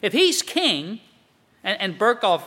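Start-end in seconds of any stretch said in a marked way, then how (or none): 0.0-1.0 lightly voiced doubter, pitched up; a touch of incredulous questioning; skeptical challenge. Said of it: "This is what the world says".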